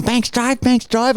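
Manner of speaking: high-pitched mock Asian accent; put-on Asian accent, pitched well up. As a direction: repeat it insistently in an imitated Asian accent. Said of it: "and they're going".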